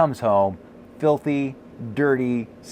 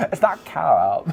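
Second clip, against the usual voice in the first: Californians impression; 3 semitones higher than usual. Host replaying his wife's put-down in a light valley girl voice. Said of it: "That's a new voice for us, uh, impression, guys, the Californians".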